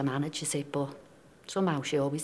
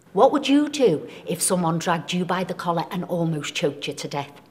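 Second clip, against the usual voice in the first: indignant retort; 7 dB louder than usual. Retold or imitated. Indignant retort to police officer.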